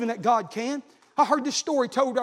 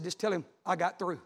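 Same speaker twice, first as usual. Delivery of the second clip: tag; 5 semitones lower, 8 dB quieter than usual. Retold or imitated. Relaying a dying man's last message.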